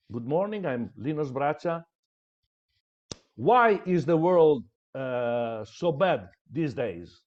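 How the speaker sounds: hook the audience with a bold question; strong opening. Shown as a demonstration. Coach showing students a strong opening, bold and punchy. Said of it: "Give the strong statement and then you tell".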